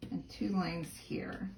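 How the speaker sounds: murmuring to herself while working; half-whispered note to self; whispered aside. Real, not acted. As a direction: say it under her breath. Aside while applying adhesive.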